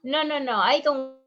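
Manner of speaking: insistent patient. Retold or imitated. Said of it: "the patient can come and tell you".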